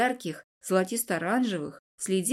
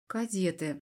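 disembodied mocking; 7 dB quieter than usual. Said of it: "в бестелесном голосе проскользнула насмешка".

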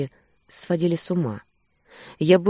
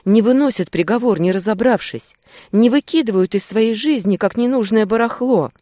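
louder, higher furious shout; full-voiced furious cry; breaking into a shout; 7 semitones higher, 8 dB louder than usual. A narrator's reading. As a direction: scream the accusation at him. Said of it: "Перешла на крик".

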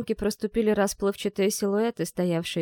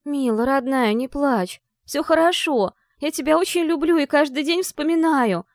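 higher, louder tender call; 7 semitones higher, 5 dB louder than usual. Acted. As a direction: call to her sister with love, loud. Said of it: "Снова крикнула я".

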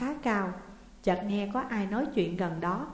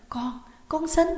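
loud cry; 8 semitones higher, 4 dB louder than usual. A narrator's reading. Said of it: "bà Tư la lớn lên".

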